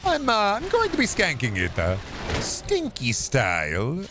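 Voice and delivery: hammed-up Italian accent. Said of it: "like a stereotypical Italian pizza shop owner".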